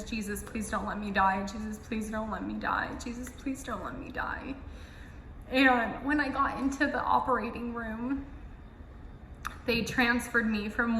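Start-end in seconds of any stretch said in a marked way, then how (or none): 0.0-4.6 repeated prayer. Retold or imitated. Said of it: "all I was saying in my head was".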